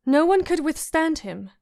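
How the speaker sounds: lightly voiced girl forcing out the line; proud Sansa. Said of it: "She managed at last, proud of herself".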